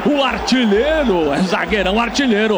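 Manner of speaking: excited play-by-play after a goal; explosive goal commentary. Real, not acted. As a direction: keep the goal energy going.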